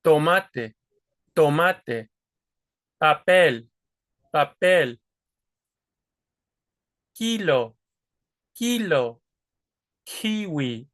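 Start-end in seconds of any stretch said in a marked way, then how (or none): 0.0-9.2 tomate, papel and kilo said with no puff of air; unaspirated Spanish stops. Shown as a demonstration. Teacher runs Spanish words without aspiration. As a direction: hold back the air on each first consonant. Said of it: "blocking that air".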